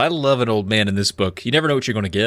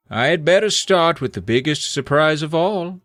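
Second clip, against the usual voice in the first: Morgred; 6 semitones higher than usual. Acted. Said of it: "he told us".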